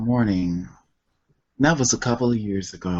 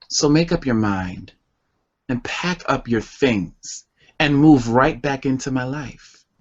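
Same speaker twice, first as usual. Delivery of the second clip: spoken word poem. Acted. Poet reading a distance-phase poem to the audience, yearning recital.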